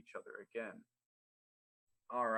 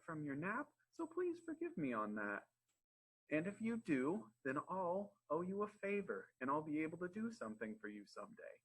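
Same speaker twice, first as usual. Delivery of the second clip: lightly voiced, higher-pitched mouse; pleading mouse; 5 semitones higher than usual. Little mouse promises the lion a favor, gently pleading. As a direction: bargain earnestly in a small high voice.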